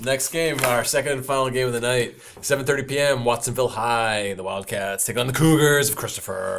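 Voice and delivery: a hint of a booming monster truck announcer; lightly hyped arena announcer voice. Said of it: "my monster truck voice there a little bit".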